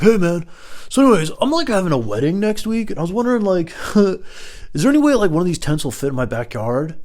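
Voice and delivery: high mimicking voice, starting loud; put-on stranger's voice. Stranger asking about a tent for his wedding, high put-on voice. Voicing stranger at red light.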